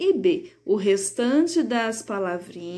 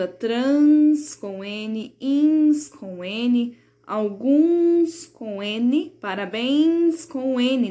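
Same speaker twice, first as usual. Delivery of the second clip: "trans", "ins", "alguns", "parabéns" drawn out slowly, each nasal ending stressed; slow stressed examples; much slower than usual. Shown as a demonstration. Teacher to young pupils, slowly stressing each example. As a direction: spell out each word slowly for the class. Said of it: "nenhum é com M de Maria".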